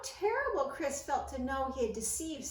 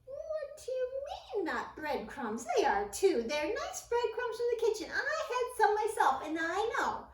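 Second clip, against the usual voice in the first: getting angry; 8 semitones higher, 4 dB louder than usual. A narrator's reading. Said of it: "beginning to get angry".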